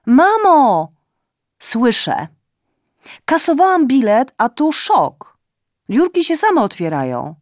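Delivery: loud, high tipsy rambling; drunken shouting. A narrator's reading. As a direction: yell it down the phone, half drunk. Drunk daughter shouting on phone. (córka krzyczy pijana do matki przez telefon)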